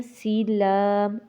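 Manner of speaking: سین لام drawn out, kept out of the nose; no nasal sound. Shown as a demonstration. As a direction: say سین لام long, without letting either word go nasal. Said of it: "ان دونوں کو ناک میں نہیں جانے دینا". (سین لام کو ناک میں لے جائے بغیر لمبا پڑھیں)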